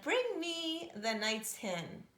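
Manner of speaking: slow and commanding like a giant; giant's demand. A narrator's reading. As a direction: giant ordering his wife.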